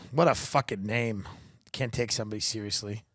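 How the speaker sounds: normal talking voice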